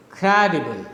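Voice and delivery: "Credible" stressed on CRE, falling away after it; falling rhythm. Shown as a demonstration. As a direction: hit the start of "Credible", let the rest drop. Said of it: "it's a falling rhythm".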